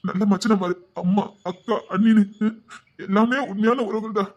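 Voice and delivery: emotional, halting confession; choked-up gratitude; tearful. Acted. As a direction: speak through held-back tears, pausing between phrases. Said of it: "என்னடா நீ அழுதுகிட்டு இருக்க".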